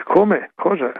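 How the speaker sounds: high, incredulous yelp; mock astonished churchgoer. A Sunday churchgoer scoffing at the evening examination, mock surprise. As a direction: scoff in fake disbelief.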